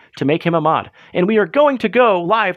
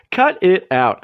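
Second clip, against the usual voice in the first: Joey Gladstone catchphrase; slower than usual. Retold or imitated. Host quoting Joey Gladstone to clever chat, lightly mock-scolding. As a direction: toss off a mild Full House scolding. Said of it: "That's a little Joey Gladstone for you".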